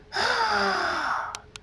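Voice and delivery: long, high exhaled hiss of effort; drawn-out high airy burst; breathy outburst. Acted. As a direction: let out a long strained breath. Burst of power, ground cracks.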